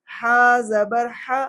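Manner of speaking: slow "ہا" with tight, raspy h from middle throat. Shown as a demonstration. Teacher drilling third pair, strong mid-throat "ہا". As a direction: squeeze "ہا" out from mid-throat, drawn out. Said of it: "یہ درمیان کے حصے سے".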